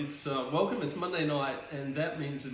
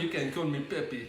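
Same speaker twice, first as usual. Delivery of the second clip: put-on French accent. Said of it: "speaking in this very sexy French voice".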